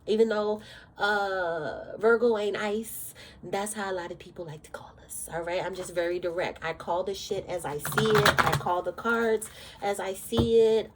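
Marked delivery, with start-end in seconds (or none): 3.4-5.3 breathy whisper tossed off to the side; whispered aside. Real, not acted. Tarot reader confides a Virgo stereotype to viewers: whispered aside.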